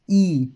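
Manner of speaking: ई said with a bright, long i; vowel sound demo. Shown as a demonstration. Teacher isolating the ई vowel for the class. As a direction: hold the ई long. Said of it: "ई की आवाज़ आ रही है ना".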